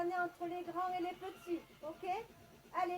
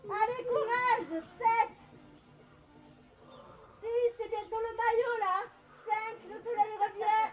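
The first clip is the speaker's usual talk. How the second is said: strained effort voice; 4 semitones higher, 7 dB louder than usual. Real, not acted. Coaching while doing hard exercise.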